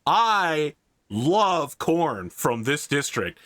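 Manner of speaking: slow, hammy campaign-trail cheer; a hint of a glad-handing politician. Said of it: "imagine a politician who goes to a state fair".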